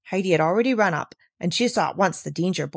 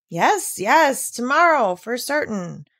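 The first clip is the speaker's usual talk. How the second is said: assuring; 3 semitones higher, slower than usual. Acted. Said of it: "Peter assured her".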